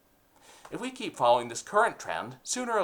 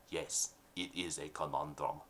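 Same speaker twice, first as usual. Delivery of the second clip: mafia boss; 9 semitones lower, 11 dB quieter than usual. Acted. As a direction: growl it like a nineteen thirties mob boss. Boss speaks.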